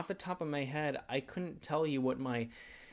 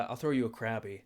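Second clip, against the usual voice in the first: Krabby voice. Retold or imitated. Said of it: "that's what Krabby sounds like".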